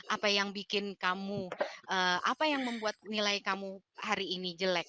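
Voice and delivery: soft, open, unhurried; gentle question. Shown as a demonstration. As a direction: ask kindly without blame. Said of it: "Beda kan ya?".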